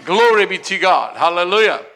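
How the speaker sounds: normal talking voice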